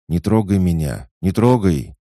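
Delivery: high, loud frightened shriek; terrified child scream. Acted.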